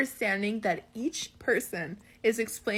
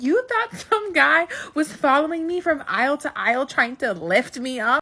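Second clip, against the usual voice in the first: incredulous outburst, higher at first; mom losing it; 4 semitones higher, 4 dB louder than usual. Retold or imitated. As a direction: imitate Mom exploding in disbelief. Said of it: "and she lost it".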